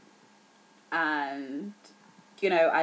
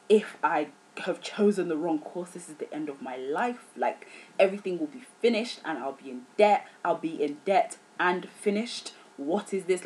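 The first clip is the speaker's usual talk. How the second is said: re-enacted worry, hushed start building to emphatic dread; retold panic. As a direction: act out a scared student spiralling. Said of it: "So I was scared".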